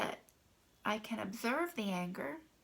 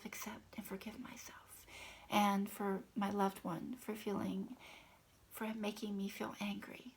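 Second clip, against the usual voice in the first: hushed, intimate affirmation read; tapping affirmation. Shown as a demonstration. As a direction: murmur it gently to yourself while tapping. Leads an EFT tapping script.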